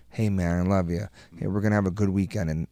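consoling dad. Retold or imitated. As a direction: quietly console your kid after a loss. Dad consoling son after loss.

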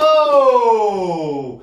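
loud sudden oh of surprise; surprised oh. Real, not acted. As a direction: blurt it out, caught off guard. Surprised at the result. (głośne, zaskoczone „O!”)

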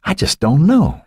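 high-pitched, helpless disbelief; distraught father's high voice; bewildered. A narrator's reading. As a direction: say it at a loss, voice high. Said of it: "he shook his head".

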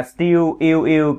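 "stu" said "styoo", with a y glide; British vowel. Shown as a demonstration. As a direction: stress the yoo sound in "yêu". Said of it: "Tiếng Anh đọc là still".

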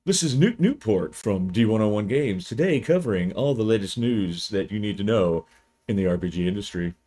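lightly voiced TV news anchor; a hint of a polished newsreader; Newt Newport news anchor voice. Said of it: "like a T V anchor or something".

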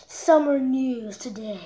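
breathy whisper, slow. Shown as a demonstration. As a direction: whisper it slowly. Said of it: "yes, summer news today".

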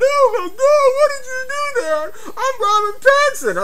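shrieking, wailing falsetto mockery; Robert Pattinson. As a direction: wail very high and loud like a punched crybaby star. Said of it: "he fell on the floor".

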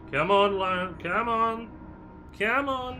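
loud, high, rising impatient plea. Real, not acted. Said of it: "getting a wee bit impatient here".

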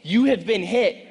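loud, high, driving keynote delivery; booming motivational speech. Acted. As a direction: preach it at full force.

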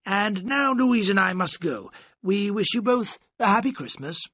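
lightly voiced worried godfather delivering bad news; stern godfather. Godfather voiced in read story.

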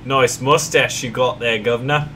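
a light stab at British; British accent. Pretend. Teasing the navigator in a half-hearted British accent. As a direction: chat him up like a Brit, lightly. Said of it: "talk in a British accent".

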